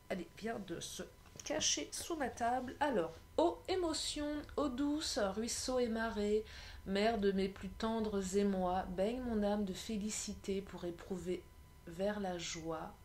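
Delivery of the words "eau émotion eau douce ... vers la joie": poem reading. Acted. Tarot reader reciting the water card, poem reading. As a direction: read it as verse, slowing toward the end. Reads card verse aloud.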